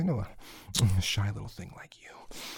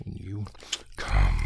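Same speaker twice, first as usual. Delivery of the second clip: louder, urgent breathy countdown; intense countdown; 6 dB louder than usual. Acted. Lover counting his partner down to climax, intense urgent whisper. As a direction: press harder with each number toward the climax.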